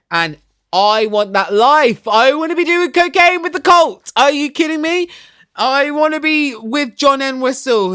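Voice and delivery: high, loud, gushing wannabe squeal; gushing excitement. Real, not acted. Vlogger gushing to viewers about wanting the groupie life, high excited squeal.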